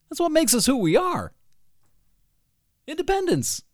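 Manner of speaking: high, fired-up defiance; rally them with defiant pride. Real, not acted. Host rallies listeners against Puritans, high and fired up.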